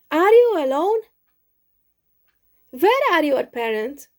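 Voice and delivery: put-on a small creature peppering the boy with questions; curious little mouse.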